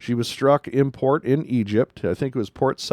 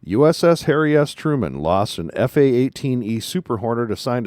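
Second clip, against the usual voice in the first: statement read-out; 2 semitones lower than usual. Shown as a demonstration. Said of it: "This is the statement from the Navy".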